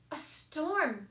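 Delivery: high, alarmed little squeal; young penguin squealing in alarm. Acted. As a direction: squeal it as the storm hits. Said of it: "squealed Pip".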